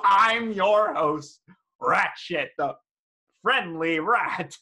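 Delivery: loud, high game show host rat; manic rat host. Acted. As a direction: greet the travelers like a manic host. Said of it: "the face is unfriendly and angry looking".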